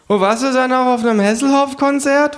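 high kangaroo voice, teasing; mocking kangaroo. Kangaroo teasing narrator about Hasselhoff, high teasing voice. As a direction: needle him, kangaroo style.

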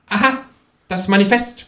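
high, know-it-all remark; smug little know-it-all; precocious. A narrator's reading. Kangaroo showing off to the ghost, high and smug. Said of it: "konstatiert das Känguru altklug".

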